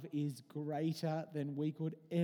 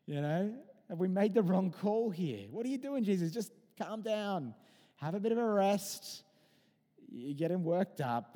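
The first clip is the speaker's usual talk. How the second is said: louder, pleading Peter pushing back; a worked-up disciple saying hang on; Peter protesting to Jesus; 2 semitones higher, 4 dB louder than usual. Retold or imitated. Preacher voicing Peter begging Jesus, louder and urgent. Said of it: "Well, Peter says".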